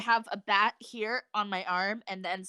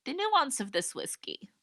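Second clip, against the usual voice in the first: hushed mock-connoisseur whisper; snooty whiskey connoisseur; faster than usual. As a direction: whisper it like a pretentious taster. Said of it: "I'd have the palate to be like".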